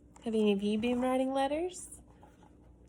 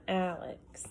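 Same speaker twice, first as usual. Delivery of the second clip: put-on indignant boy; 3 semitones higher than usual. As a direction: argue it like an oldest child wronged. Reads Alex's letter aloud.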